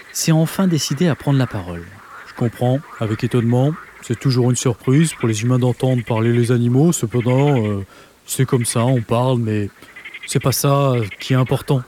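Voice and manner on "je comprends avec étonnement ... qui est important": voix de grenouille grave, un peu plus basse; voix très grave. Acted. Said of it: "la voix la plus grave". (voix de basse, grenouille posée)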